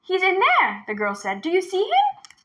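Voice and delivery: put-on high, urgent little girl's voice; a frightened girl luring the tiger; young girl. A narrator's reading. Girl leading the tiger to the well, high and urgent.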